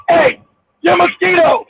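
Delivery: high-pitched attention-getting call. Real, not acted. Calling out to another panel member.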